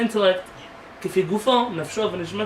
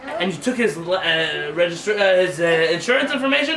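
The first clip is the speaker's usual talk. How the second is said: mocking wife; 4 dB louder than usual. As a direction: scoff at his naivety. Wife mocks husband.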